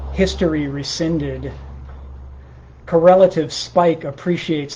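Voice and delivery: measured, deliberate poem recital; poetry reading. Acted. Poet reading improvised morning poems to a livestream, measured recital. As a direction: read it line by line, pausing between phrases.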